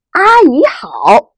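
阿姨好 with high level 阿, drawn slowly; first tone greeting. Shown as a demonstration. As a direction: hold 阿 high and flat, slowly. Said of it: "所以是第一声". (阿姨好，第一声，高平慢读)

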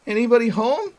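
high, loud call from the door; a friend poking his head in, calling out. Acted. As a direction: shout it into the house. Calling into the house.

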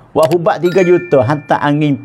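usual speaking voice

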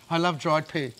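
talking through a mouthful of pear; mouth full. Real, not acted. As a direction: say it while chewing dried fruit. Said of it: "Can you speak with your mouth full?".

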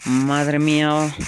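loud, slow, amazed exclamation; excited. Real, not acted. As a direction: draw it out in awe. Excited at reaching the Nether.

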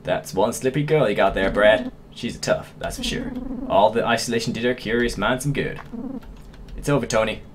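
put-on game villain with a southern accent; lightly acted southern US accent. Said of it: "giving all these guys southern accents".

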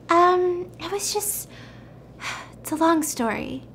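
high, halting, softening to a sigh; acted sheepish hesitation; awkward stalling. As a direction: hedge as if caught out. Simi caught, stalling for explanation.

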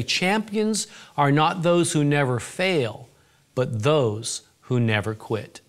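slow quoted maxim. Retold or imitated. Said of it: "used to say".

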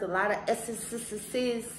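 S's with a lisp through braces; lisped S's, tongue behind braces; whistling s. Shown as a demonstration. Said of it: "if it sound like I'm lisping".

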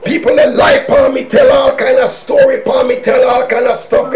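preaching shout. Real, not acted. Preacher telling the church about liars, shouting. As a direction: hammer out the accusation.

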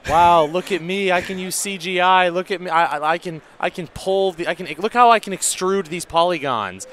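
high, loud boastful show-off; mocking designer. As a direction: brag like a proud show-off.

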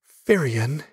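high, questioning call of disbelief; amazed. A narrator's reading. Sister reacting to her brother's confession, amazed. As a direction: say the name high, rising in amazement.

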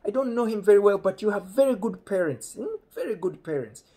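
high-pitched mock father; imitating chatty dad. Dad chatting to the boy about his parents, high-voiced imitation. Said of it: "Meanwhile, dad said".

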